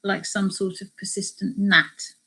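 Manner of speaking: measured travel memoir reading; story narration. A narrator's reading. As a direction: read the account aloud to listeners. Reads a book extract aloud.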